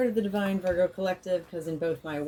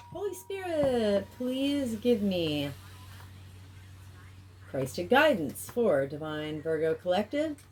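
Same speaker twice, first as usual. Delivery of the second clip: prayer; 2 semitones higher than usual. Acted. Prayer over the deck.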